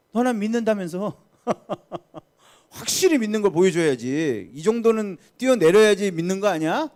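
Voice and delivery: loud, high taunt with a laugh; taunting tempter. Acted. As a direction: goad them loudly, laughing in mockery. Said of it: "두 번째 시험은 뭐예요".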